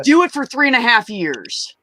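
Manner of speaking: scolding retort. Retold or imitated. Finishing her lecture to the brother, high and pointed. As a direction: land the number like a verdict. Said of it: "And I'm like".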